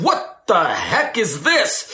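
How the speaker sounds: exasperated. Retold or imitated. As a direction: sound done with it all. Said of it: "You're gonna end up saying".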